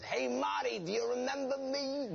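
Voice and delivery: high, chummy greeting of a stranger; mock old fan greeting. Host greeting forgotten guests, in a high chummy voice. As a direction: greet them like old pals you can't name.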